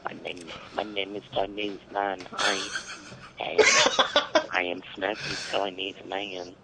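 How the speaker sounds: halting pretend Chinese accent; badly faked Chinese accent, broken by a giggle; mock Chinese accent. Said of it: "Maybe a Chinese?".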